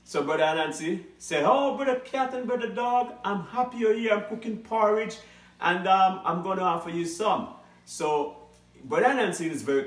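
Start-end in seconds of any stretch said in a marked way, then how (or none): 1.5-7.5 sly host. Acted. Anansi greets his guests sweetly.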